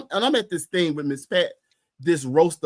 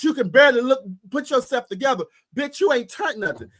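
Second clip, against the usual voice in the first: ranting refrain; 3 semitones higher than usual. Real, not acted.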